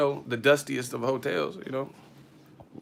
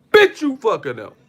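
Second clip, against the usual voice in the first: higher, louder barked insult; loud mock insult; 7 semitones higher, 9 dB louder than usual. Neighbor yelling an insult mid-argument, mock loud shout. Neighbors arguing through hotel wall.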